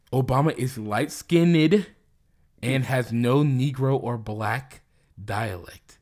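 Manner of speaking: deliberate slow quote reading. Shown as a demonstration. Slowly reading a search result aloud to a friend. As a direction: read it out slowly, word by word. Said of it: "This is a quote".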